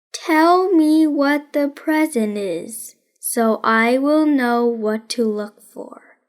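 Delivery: a hint of a dry boy detective, taking his time; deadpan detective Nate. Nate questions Rosamond about the present, slow and deadpan. Nate voiced in read story.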